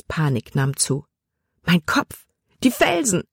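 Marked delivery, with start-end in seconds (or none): 1.6-3.2 higher panicked outburst; panicked cry. A narrator's reading. Libby cries out in panic while swept downstream. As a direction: gasp it out in panic.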